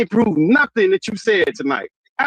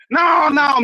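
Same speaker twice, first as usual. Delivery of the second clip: shouted no; 5 semitones higher than usual. Real, not acted. Heated argument, cutting him off.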